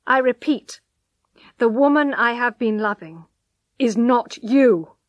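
lightly voiced man, firm and final; cold husband.

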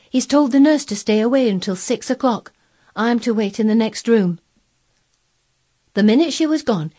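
lightly voiced maid passing on orders; lightly acted servant's report; Martha.

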